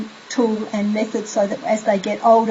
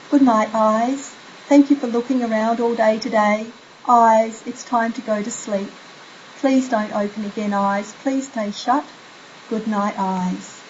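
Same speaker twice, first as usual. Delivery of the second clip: sleepy soothing voice. Shown as a demonstration. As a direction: fade them into sleep gently. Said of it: "so it's something like".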